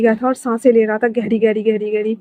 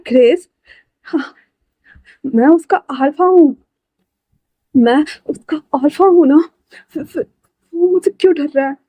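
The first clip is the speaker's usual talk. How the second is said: 1 distraught disbelief; 4 semitones higher than usual. Acted. Distraught alpha questioning.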